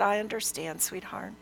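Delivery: soft, soothing, fading at the end; tender reassurance. Retold or imitated. Grandmother comforting a sobbing young woman, tender and hushed. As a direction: comfort gently, very quietly.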